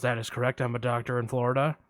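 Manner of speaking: a hint of Buffalo Bill, low; creepy caller. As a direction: lurk low like a shady caller. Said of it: "I'm gonna play both parts".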